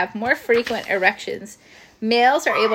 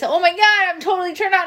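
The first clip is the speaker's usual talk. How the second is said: mock baby thought; 8 semitones higher, 4 dB louder than usual. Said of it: "they don't do it because".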